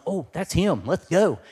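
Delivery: the sheep spotting their shepherd; excited sheep. Retold or imitated. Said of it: "and one's".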